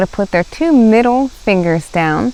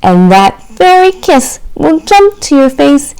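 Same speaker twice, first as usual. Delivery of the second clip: tender mother; 4 semitones higher, 6 dB louder than usual. Acted. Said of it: "she told Chester".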